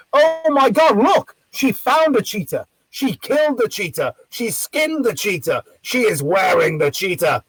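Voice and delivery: hammed-up shock, slow and emphatic; mock horror. Acting out his heckle line.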